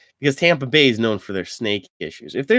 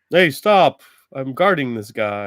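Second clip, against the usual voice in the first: New York tough guy. Pretend. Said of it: "A New York Guardian".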